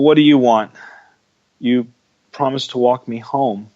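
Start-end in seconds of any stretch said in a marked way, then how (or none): 0.0-0.7 loud snap. Acted. Sulking Rudolph snaps back.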